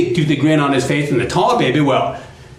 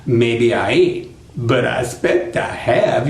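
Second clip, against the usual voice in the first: sly Brer Fox, gloating; 2 semitones lower than usual. Acted. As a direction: toy with your captive in a lowered voice.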